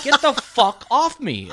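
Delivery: laughing while yelling him off; mock yell. Shoving off the lifeguard giving mouth to mouth, a laughing yell. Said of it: "I'm like".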